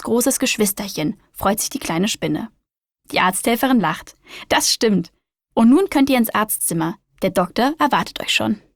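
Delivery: lively storybook reading voice; reading to children. A narrator's reading. Host reading a spider story to young listeners, lively storyteller voice. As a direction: read it like a bedtime picture book.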